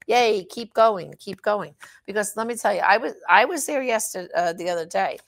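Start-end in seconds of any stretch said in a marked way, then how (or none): 0.1-1.7 mock cheerleader. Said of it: "like a cheerleader".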